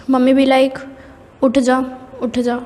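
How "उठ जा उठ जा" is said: lovingly. Retold or imitated. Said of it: "प्यार से बोलती है".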